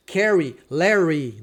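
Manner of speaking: "Carrie", "Larry" with a curled-back R; caipira-style English R. Shown as a demonstration. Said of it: "Só tem esse som o R".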